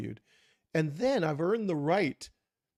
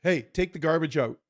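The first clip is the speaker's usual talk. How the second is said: louder blunt bark of an order; curt order; 6 dB louder than usual. Retold or imitated. Spouse ordering the garbage out, curt and louder. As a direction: snap it as a command. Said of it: "which one am I gonna respond to".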